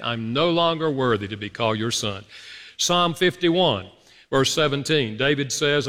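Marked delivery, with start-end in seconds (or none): 0.0-2.2 regretful. Shown as a demonstration. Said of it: "You feel the regret in that?".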